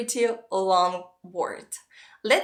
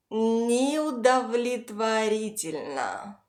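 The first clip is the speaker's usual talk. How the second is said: Неудовлетворительно slowly, drawing out each syllable; slow pronunciation model; slower than usual. Shown as a demonstration. Teacher has learners repeat a long Russian word, slowly. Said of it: "Repeat after me".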